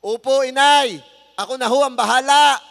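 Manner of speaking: loud, high, eager yes to mother; a child's hearty loud reply to mother; loud but respectful. Shown as a demonstration. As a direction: call out willingly, full voice. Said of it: "malakas na boses na hindi pabalang".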